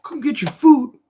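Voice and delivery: high calling voice, like feeding llamas; hollering at the creatures to come eat; Napoleon Dynamite impression. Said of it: "Napoleon Dynamite".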